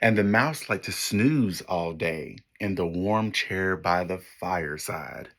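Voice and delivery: put-on lively storybook read for kids; story narration. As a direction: read it like a picture book to children. Reads picture book to class.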